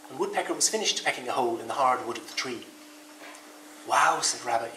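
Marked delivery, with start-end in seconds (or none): 3.9-4.2 sleepy yawning wow. Acted. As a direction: yawn through the word.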